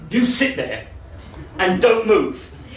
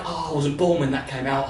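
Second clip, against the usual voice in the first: put-on young girl voice; 8 semitones lower, 6 dB quieter than usual. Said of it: "She's like".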